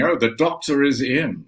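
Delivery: lightly voiced promo voice. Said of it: "doing the whole thing".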